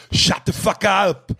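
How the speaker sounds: put-on high, loud, drawn-out Austrian-accented yell; hammed-up action hero bellow; Schwarzenegger. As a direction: shout it as a mock Austrian strongman. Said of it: "Hearing Schwarzenegger tell someone".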